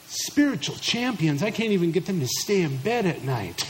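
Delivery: mock-incredulous overwhelmed dad; incredulous parent. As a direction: play a parent baffled by the very idea. Acted overwhelmed father's incredulous reply.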